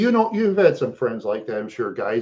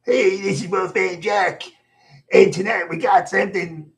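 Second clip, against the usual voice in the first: higher radio DJ growl, pushed harder; Wolfman Jack impression; 6 semitones higher, 3 dB louder than usual. Fan retries his Wolfman Jack voice, a bit louder. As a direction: go for the full late-night DJ howl. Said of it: "I'll try again".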